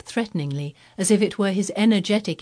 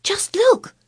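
high, loud breathy whisper; urgent hushed pointing; excited whisper; 7 dB louder than usual. Acted. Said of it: "he whispered excitedly".

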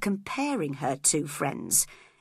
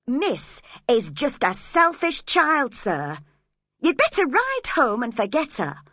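calling out; 6 semitones higher, 5 dB louder than usual. A narrator's reading. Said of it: "I called out to him".

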